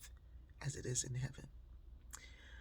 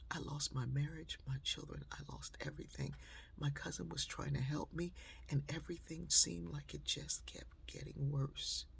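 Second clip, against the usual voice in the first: tearful whisper; 6 dB quieter than usual. Retold or imitated. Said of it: "he just was crying".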